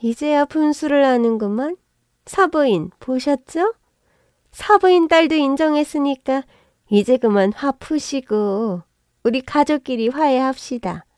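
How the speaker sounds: high, eager, ingratiating pleading; butter her up to escape the debt; fawning wheedling. Acted. Mother-in-law flattering the narrator to make peace, eager wheedling.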